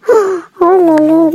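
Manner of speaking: slow, drawn-out whimpering oh là là; a drawn-out dramatic sigh of despair; mock whine. Real, not acted. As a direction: whine it out slowly, half-crying. Dismay at being ignored in game.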